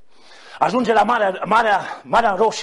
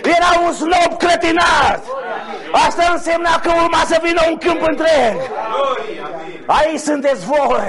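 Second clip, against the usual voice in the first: preaching; 4 semitones higher than usual. Real, not acted. Preacher proclaiming the field to come to his congregation, preaching.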